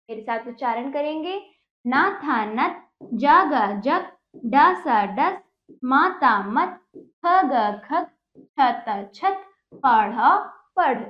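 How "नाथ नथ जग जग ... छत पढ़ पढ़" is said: slow, drawn-out syllables, then the joined word; sing-song sound-it-out chant for pupils; reading drill. Shown as a demonstration. (धीमे, खींचकर पढ़ाने का लहजा)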